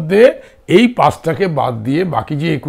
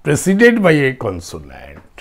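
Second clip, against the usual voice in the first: slow dictation; 3 semitones lower, 3 dB quieter, much slower than usual. Shown as a demonstration. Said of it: "dictating the condition".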